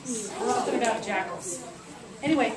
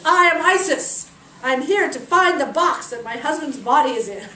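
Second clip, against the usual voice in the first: regal declaration; 4 semitones higher, 9 dB louder than usual. Acted. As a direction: proclaim your name like a goddess. Isis announces herself.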